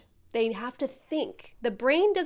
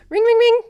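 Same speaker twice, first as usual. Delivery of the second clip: much higher, louder ring ring; higher phone ring; 11 semitones higher, 13 dB louder than usual. Pretend. Coach rings the trainee again, higher and louder. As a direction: ring like an impatient phone, pitched up. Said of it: "I'm gonna keep getting higher and higher".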